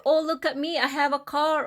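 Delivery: high, mocking boastful man; mocking show-off. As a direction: brag about the car in a teasing voice. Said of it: "And, or".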